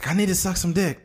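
a hint of a strung-out woman; voicing a crazed woman. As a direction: play the woman off her rocker. Imitating crazed woman at car.

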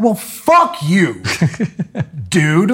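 laughing scoff at the seller. Retold or imitated. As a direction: laugh through the insult.

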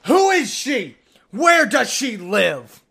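high, loud, nosy buddy voice; loud high mock-jealous question, slowing down; doing the bit. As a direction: squeal it like a gossiping friend. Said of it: "it just says the bit".

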